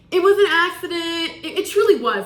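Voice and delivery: laughing through a sheepish confession. Real, not acted. To viewers, a laughing confession of speeding again. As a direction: giggle it out, half guilty.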